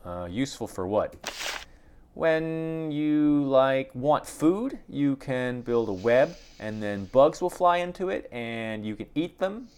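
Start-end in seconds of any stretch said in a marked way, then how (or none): 2.1-9.7 high little spider voice. Acted. Small spider voice continues.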